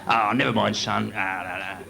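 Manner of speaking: a hint of a soothing bouncer; consoling bouncer. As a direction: gently comfort the crying lad. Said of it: "commisseratory cuddle off the bouncers".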